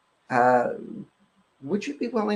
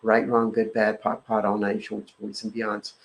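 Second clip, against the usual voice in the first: rote clearing formula; 2 semitones lower than usual. Acted. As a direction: recite the formula by heart, steady and even. Recites the clearing statement.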